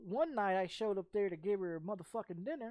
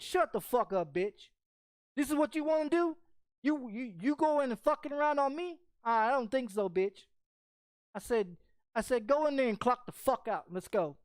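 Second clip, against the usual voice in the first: retold angry yelling; 4 semitones higher, 3 dB louder than usual. Yelling at girlfriend.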